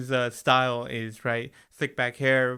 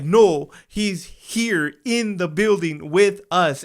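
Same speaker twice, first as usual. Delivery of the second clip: slow eerie warning; 2 semitones higher, 5 dB louder, much slower than usual. Retold or imitated. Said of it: "And he's like".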